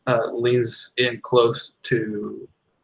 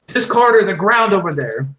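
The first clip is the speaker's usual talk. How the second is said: higher, louder put-on orc; 9 semitones higher, 7 dB louder than usual. Orc offering a choice to the elf, put-on creature voice. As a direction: growl out the choice.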